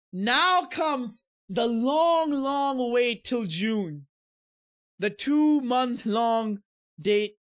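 long wait, said slowly; slow weary drawl. Real, not acted. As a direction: drag out the wait. Drawn-out weary complaint.

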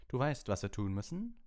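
high, pressing team talk; lightly voiced eager captain; urgent captain Wood. A narrator's reading. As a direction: fire up the seeker before the match. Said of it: "sagte Wood".

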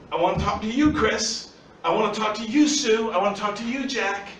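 single out each listener in turn; pointed direct address. Acted. Jesus pointing at each listener, insistent direct address. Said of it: "it's like him pointing to you and saying".

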